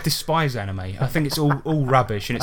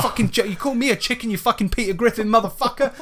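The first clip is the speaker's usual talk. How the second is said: much higher, furious mock rant; angry yell; 10 semitones higher than usual. Furry in a dragon suit yelling up at Gary, furious. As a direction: rage at the heckler in the window. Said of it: "he's like".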